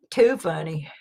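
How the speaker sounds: breathy whispered aside. Real, not acted. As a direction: whisper it to yourself, amused.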